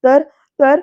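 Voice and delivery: loud, hammed-up melodramatic outburst; theatrical threat. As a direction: push it out like a stage ultimatum. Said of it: "असं लगेच हा विद्याधर नाटकी स्वरात बोलतोय". (मोठ्या आवाजात नाटकी धमकी)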